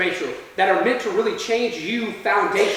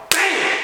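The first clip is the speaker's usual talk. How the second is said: sudden high "bam"; imitated impact; 10 semitones higher than usual. Teller leveled by cops in the hall, sudden bam. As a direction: burst out a sound effect for a tackle.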